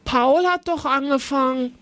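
Elias protesting he didn't start it; outraged boy, hammed-up a little; scolding. A narrator's reading. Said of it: "schimpfte Elias".

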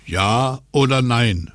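slow, insistent wind-character question; drawn-out demand of the wind; North Wind asking. Acted. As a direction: press slowly for an answer. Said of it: "fragte der Nordwind".

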